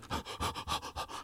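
mock panting gasp; hammed-up breathless gasp; imitated winded gasp. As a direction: gasp as if out of breath halfway up a hill. Imitating hikers who blast up.

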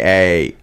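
"a" said as a drawn-out eh; Canadian "eh". Shown as a demonstration. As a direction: stretch "a" into a Canadian eh. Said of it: "People say".

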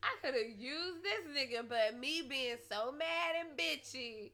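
loud, heated retold rant; fuming, I'll do it myself; angry. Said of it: "And then I was like".

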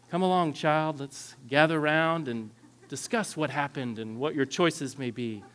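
sugary, lightly put-on nurturing therapist voice; mock therapeutic calm. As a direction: coax gently, parodying a perfectly calm parent. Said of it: "calm, therapeutic voice".

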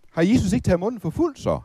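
ordinary delivery

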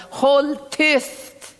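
high, sharp scolding hush. Acted. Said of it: "börjar de säga till honom".

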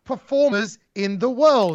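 slow, stretched words like a busted AI robot; mock robotic pacing. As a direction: imitate his odd halting promo delivery. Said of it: "the weird pacing".

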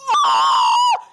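drawn-out, creepy imitated noise; creepy kiss noise. Shown as a demonstration. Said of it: "one of those creepy, like".

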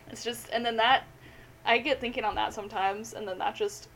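talking through the hiccups; words broken by hiccups. Real, not acted. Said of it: "I've got the hiccups".

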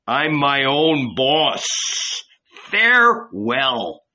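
exultant, rising defiant voice; defiant apostle. Acted. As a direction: throw off the chains, triumphant. Apostle exults, bids farewell.

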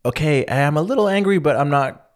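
mildly irked but holding back; lightly annoyed, not pushing; subtly annoyed. Retold or imitated. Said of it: "the subtle".

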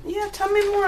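high, coaxing seductive voice; femme fatale. Acted. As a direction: draw him out, flirtatious. Courtesan coaxing.

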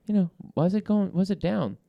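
friendly call. Retold or imitated. Host imitating himself calling his friend Chad, casual and high. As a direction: play it cool and chummy on the phone. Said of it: "I'm like".

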